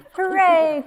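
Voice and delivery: high, loud hooray; cheer. Acted. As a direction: cheer with joy. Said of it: "cried Frog".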